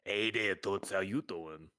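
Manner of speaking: slow drawn-out brassy floozy; brassy gum smacking floozy. Acted. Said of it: "being ogled by construction workers".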